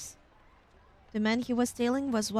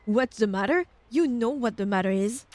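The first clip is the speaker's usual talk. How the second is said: louder, menacing father on the phone; threatening masculine voice; 5 dB louder than usual. Acted. Father growling at his daughter's boyfriend, threatening. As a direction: lean into the threat, a touch louder. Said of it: "a threatening masculine voice".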